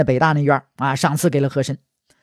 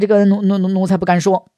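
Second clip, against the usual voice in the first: mock-nervous stutter on the first word; stammering servant. He Shen dodging the emperor's question, mock-nervous stammer. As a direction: stumble over it, as if scared to speak.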